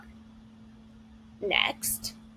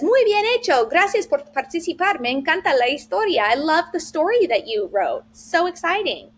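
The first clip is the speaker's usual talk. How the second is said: cheerful feedback; 4 semitones higher than usual. Acted. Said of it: "And it says".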